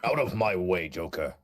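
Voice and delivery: a hint of a gruff superhero; lightly voiced comic-book vigilante, drawing out the last word; Batman. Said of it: "I sound like quintessential Batman".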